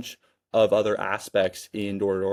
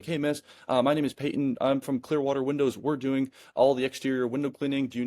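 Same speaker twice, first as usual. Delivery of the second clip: stiff salesman pitch; 3 semitones higher than usual. Shown as a demonstration. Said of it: "say the perfect thing in the wrong way".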